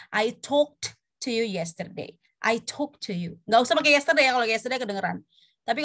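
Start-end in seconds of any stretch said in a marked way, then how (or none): 0.1-2.2 "talked" with a released t before "to"; sounded past ending. Shown as a demonstration. Teacher repeating for comparison, "talked" with its t sounded. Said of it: "Ada yang beda nggak?". 2.4-3.4 "talked" said as "talk", straight into "to"; present-tense sound. Shown as a demonstration. Teacher giving the contrast, "talked" without its past ending. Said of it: "Ada yang beda nggak?".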